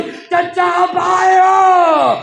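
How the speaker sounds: put-on a small girl answering her uncle, longing; little girl's voice. A narrator's reading. Child answers from the grave. (ऊँची, धीमी बच्ची की पुकार)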